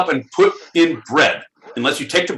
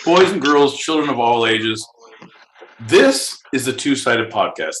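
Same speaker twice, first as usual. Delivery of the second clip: ringmaster. Acted. Hosts announce the show.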